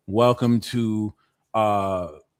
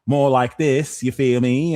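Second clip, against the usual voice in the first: mediocre stab at an English accent; attempted English accent; 4 dB louder than usual. Shown as a demonstration. Tarot reader showing off a mediocre English accent. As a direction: slip lightly into an English accent. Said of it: "The best I can do is an English accent".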